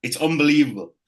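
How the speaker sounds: high, loud and thrilled; excited gushing. Real, not acted. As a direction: gush with delight. Gushing over a favourite song.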